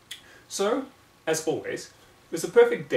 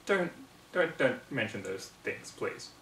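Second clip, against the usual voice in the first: shuddering plea; 5 dB quieter, slower than usual. Acted. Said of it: "Sweetabelle shuddered at the memory".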